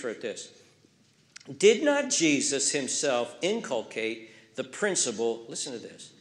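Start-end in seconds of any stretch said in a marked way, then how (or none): 1.6-5.4 slow reading. Shown as a demonstration. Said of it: "I'll read slow".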